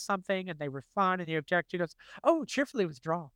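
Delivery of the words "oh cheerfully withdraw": Sideshow Bob's line. Retold or imitated. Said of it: "the way he says that".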